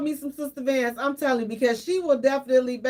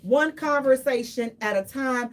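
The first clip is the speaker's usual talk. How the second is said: radio host intro. Acted. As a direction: announce it like a show host. Show intro.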